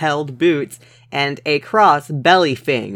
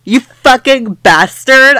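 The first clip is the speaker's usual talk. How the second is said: mock moan; 9 semitones higher, 7 dB louder than usual. A narrator's reading. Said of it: "I moaned".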